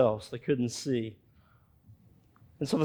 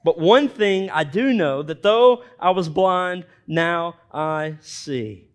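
a preacher proclaiming the blind man's words; emphatic reading; 3 dB louder, slower than usual. Shown as a demonstration. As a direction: proclaim it, then land it gently. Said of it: "underline that in your Bibles".

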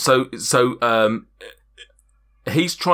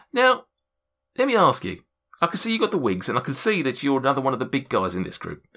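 higher, faster sly salesman goading him; lightly voiced gnome merchant; 4 semitones higher, faster than usual. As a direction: needle the big guy with a quick, higher pitch.

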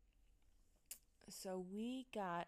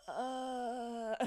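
loud, raised "uh" of exasperation; exasperated groan; 4 semitones higher, 7 dB louder than usual. Retold or imitated. Reacting to coworkers repeating the greeting, exasperated groan. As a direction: groan loudly in disbelief.

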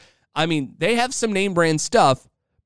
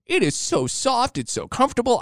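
hammed-up high squeal of delight; happy wife. Wife thanks husband for the hoodie, mock-squealing with joy. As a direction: imitate a thrilled wife in a very high falsetto. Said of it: "she was so happy".

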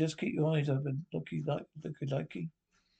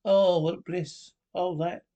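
slow swooning sigh; 5 dB louder, slower than usual. Acted. Swooning in the dark tent.

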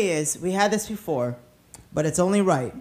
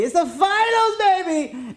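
excited; 9 semitones higher, slower than usual. Real, not acted. Hyped about the NBA finals.

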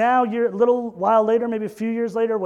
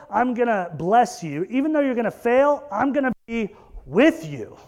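fervent preaching; 3 semitones higher than usual. Acted. Preacher voicing Jesus' promise to Peter, fervent preaching. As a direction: build each fail line up.

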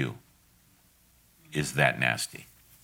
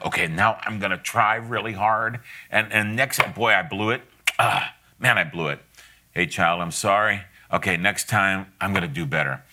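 1 self-talk. Retold or imitated. Voicing struggling parent.

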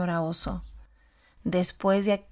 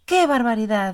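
exclamation; 6 dB louder than usual. Acted. Bear exclaims delighted.

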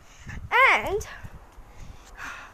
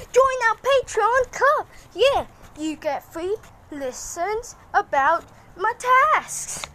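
ad read; 2 semitones higher than usual. Pretend. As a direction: pitch it like a radio ad. Reads pretend ad break.

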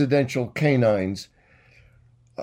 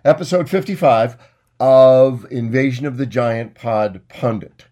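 showman announcer; 3 dB louder than usual. Acted. Host welcoming listeners to his show, hammed-up announcer. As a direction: roll out the greeting like a carnival barker. Hammed-up podcast opening intro.

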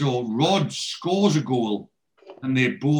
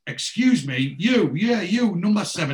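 raised, high voice hailing someone; calling out; 7 semitones higher, 5 dB louder than usual. Retold or imitated. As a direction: imitate calling a boy over. Acted calling out to a boy.

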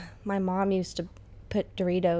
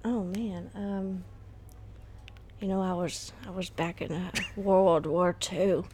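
put-on old man voice. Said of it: "give me your best old man voice".

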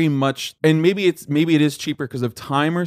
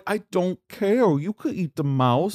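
cooing at cat; 3 semitones higher than usual. Retold or imitated. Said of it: "And I'm like".

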